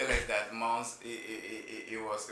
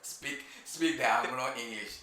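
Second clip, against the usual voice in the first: slow, drawn-out fake Anglo English accent; mock posh English; slower than usual. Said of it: "It sounds nice".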